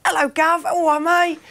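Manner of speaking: exaggerated high English greeting; pure English accent. Actor explaining the cut scene, pure English accent. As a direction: pitch up a matey English hello. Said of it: "my accent was just pure English".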